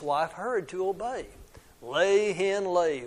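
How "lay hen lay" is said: mild roar of command; understated storybook roar; roaring giant. Acted. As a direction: order it out with a touch of giant roar. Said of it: "roared the giant".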